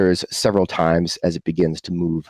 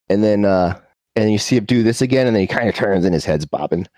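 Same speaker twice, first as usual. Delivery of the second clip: ordinary talk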